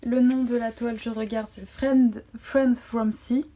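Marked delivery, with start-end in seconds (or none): 1.7-3.5 English title read with a French accent. Real, not acted. Vlogger reading out the canvas's name, French-accented English. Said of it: "mon superbe accent anglais".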